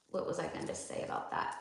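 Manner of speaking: hushed, barely voiced aside; muttering to self. Real, not acted. Speaker losing her train of thought, muttering to herself. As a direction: think aloud under your breath. Loses thread, asks herself.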